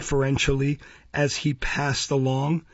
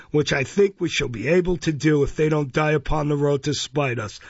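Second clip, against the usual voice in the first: pompous bellowing beadle; 2 semitones higher than usual. Acted. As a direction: lecture her like a pompous official.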